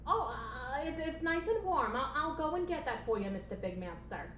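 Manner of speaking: high, stammering servile voice; timid puppet assistant, trailing off politely; nervous assistant. Acted. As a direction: placate the boss, high and flustered. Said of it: "playing the assistant character".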